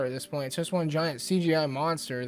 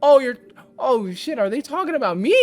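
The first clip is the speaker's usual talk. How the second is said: high, loud mock realization; mock dawning surprise; 6 semitones higher, 5 dB louder than usual. Vlogger plays someone realizing they're mocked, high and loud. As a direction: act out the penny dropping.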